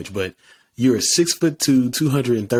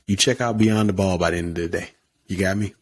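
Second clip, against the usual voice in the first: coach voice; faster than usual. Shown as a demonstration. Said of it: "I put on my coach voice".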